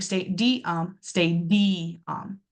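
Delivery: "stay D, um" as separate drawn-out syllables; broken into syllables. Shown as a demonstration. Teacher explaining where the schwa sits, "stay D, um" syllable by syllable. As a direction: sound out "stay D, um" piece by piece. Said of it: "is how I'm pronouncing that word".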